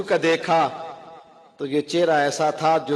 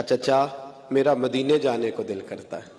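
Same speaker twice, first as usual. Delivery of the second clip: gentle, lowered plea to the uncle; soft humble tone. Acted. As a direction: ask softly, head bowed. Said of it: "تو ہلکے لب و لہجے میں".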